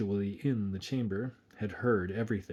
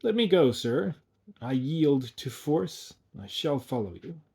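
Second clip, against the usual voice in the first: with some nobility; 4 semitones higher than usual. Acted. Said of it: "not without some nobility".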